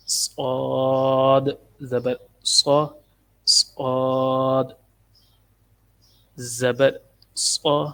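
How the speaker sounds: "صاد" drawn out with a soft whistling S; heavy rounded vowel after the S in "صو"; soft, whistling Sad. Shown as a demonstration. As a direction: let the S of "صاد" whistle softly. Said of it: "اس کو نرمی سے پڑھنا ہے".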